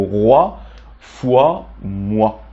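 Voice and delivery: roi, foi, moi each said with "wa"; oua sound. Shown as a demonstration. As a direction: model roi, foi, moi one at a time as rwa, fwa, mwa. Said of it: "ça se prononce oua".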